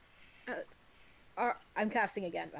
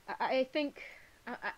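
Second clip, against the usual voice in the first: nervous stutter; 3 semitones lower, 4 dB quieter than usual. Acted. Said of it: "be like".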